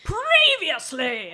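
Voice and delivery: slow, dramatic reality-show announcer; hammed-up announcer intro. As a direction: drag it out like a TV recap. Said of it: "Cue music".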